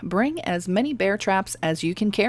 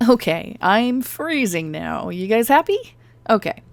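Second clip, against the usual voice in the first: exasperated; 4 semitones higher, 4 dB louder than usual. Real, not acted. Annoyed concession to viewers.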